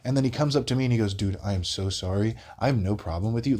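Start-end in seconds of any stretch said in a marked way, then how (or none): 1.1-3.6 level, composed imitated apology; lucid, sincere. Crackhead apologizing to the bystander, lucid and composed. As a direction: say it evenly, like a suddenly reasonable man. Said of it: "fully lucid, not screaming anymore".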